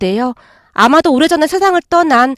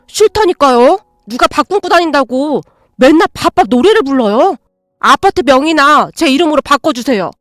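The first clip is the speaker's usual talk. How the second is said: angry demanding son. Acted. Son refuses, keeps demanding.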